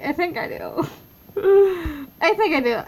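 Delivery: giechelend en hoog; giggly. Real, not acted. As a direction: lach het er plagerig uit. Teasing repeat with laugh.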